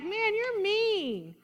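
a hint of a wounded sheep complaining; mock complaint. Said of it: "We'd be like".

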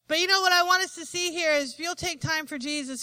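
ordinary talk, nothing marked

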